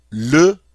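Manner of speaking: "bacon" said the French way, bah-KOHN with a nasal end; French pronunciation. Shown as a demonstration. Teacher modelling "bacon" in French for the class. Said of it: "the French way of saying".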